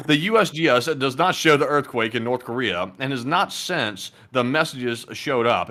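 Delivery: slow, careful reread; slow careful reading. Real, not acted. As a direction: read each word slowly. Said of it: "let me start over".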